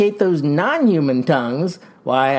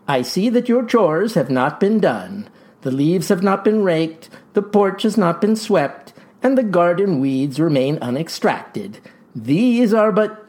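father's voice; 2 semitones higher than usual. Acted. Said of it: "that was me doing the father's voice".

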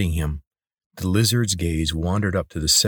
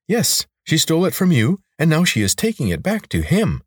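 higher-pitched creature, insistent; urgent lizard; 10 semitones higher, 3 dB louder than usual. Acted. Lizard tells Corvin of Kate's theft, urgent. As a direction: press the bad news in a lifted lizard voice.

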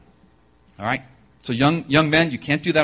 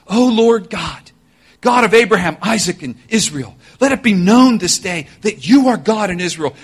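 fervent prayer; 4 semitones higher than usual. Retold or imitated. Elijah's prayer voiced.

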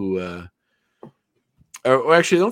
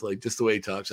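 normal talking voice

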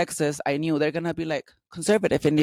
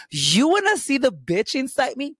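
mock high taunt; 9 semitones higher than usual. Bar fight challenge.

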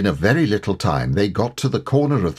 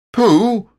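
high, loud shout; excited shout to a friend; Christopher Robin; 6 dB louder than usual. A narrator's reading. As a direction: call out sharply, pitch shooting up. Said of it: "shouted Christopher Robin".

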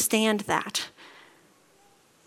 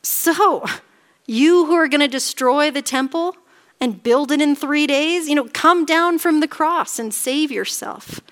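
mock taunt, pitched higher; hurled insult; 4 semitones higher, 4 dB louder than usual. Passers-by insulting Jesus on the cross, mocking taunt. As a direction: jeer like a scornful passer-by. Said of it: "hurled insults at him, shaking their heads".

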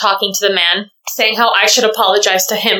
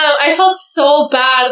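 tearful; 4 semitones higher, slower than usual. Real, not acted. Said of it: "I'm crying right now".

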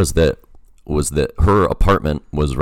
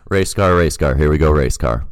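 clear, evenly voiced test phrase; clean, crisp read. Shown as a demonstration. Giving the host a clean audio take on request, crisp. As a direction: say it cleanly for the recording. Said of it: "nice, clean, crisp one".

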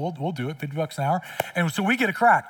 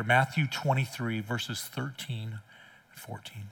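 much softer and lower, slowing down; hushed and grave; 5 semitones lower, 5 dB quieter, slower than usual. Real, not acted. Pastor hushing the congregation before Jesus' words, grave and quiet. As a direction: drop to a hush before the scripture.

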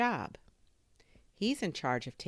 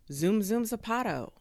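higher, louder launch cry; excited catchphrase; 8 semitones higher, 6 dB louder than usual. A narrator's reading. Kid racing after the drone, excited cry. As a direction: punch it out like a superhero catchphrase.

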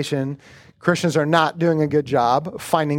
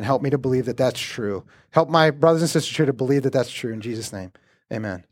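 prayer; 2 semitones lower than usual. Real, not acted. Pastor praying for the congregation, hushed.

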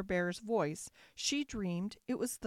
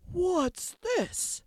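loud, big bear outburst, pitched up; growling father bear; 8 semitones higher, 5 dB louder than usual. A narrator's reading. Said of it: "growled the father bear in his great big voice".

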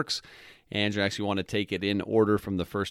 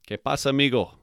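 casual greeting; 4 semitones higher, much faster than usual. Shown as a demonstration. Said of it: "And now it's".

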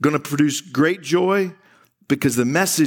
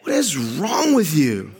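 laughing disbelief. Retold or imitated. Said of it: "You'd be like".

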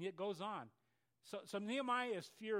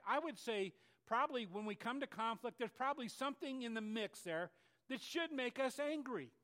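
ordinary delivery

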